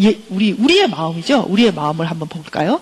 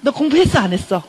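mock-irritated parental grilling, pitched up; annoyed parent; 4 semitones higher than usual. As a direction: scold a child in mild mock annoyance. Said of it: "막 이렇게 짜증 낼 수도 있죠".

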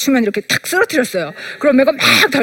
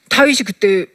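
ordinary delivery

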